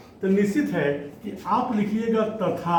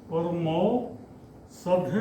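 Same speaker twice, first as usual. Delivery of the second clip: परमौसध drawn out slow and softer; slow softer repeat; 4 dB quieter, much slower than usual. Shown as a demonstration. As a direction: repeat परमौसध slowly for the students to write. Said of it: "slow repeat for students". (परमौसध धीरे और धीमी आवाज़ में दोहराना)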